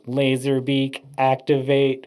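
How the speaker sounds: flat, mechanical robot voice; lightly voiced robot command. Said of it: "talked like a robot".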